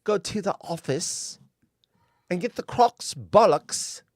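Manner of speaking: playful mock British accent, a bit slow. Host copying the British mum from the clip, mock British accent. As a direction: try on the mum's British accent. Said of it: "I want to have an accent like that".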